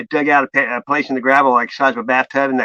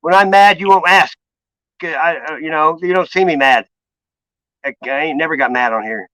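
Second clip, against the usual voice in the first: firm retort. Retold or imitated. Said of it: "I go".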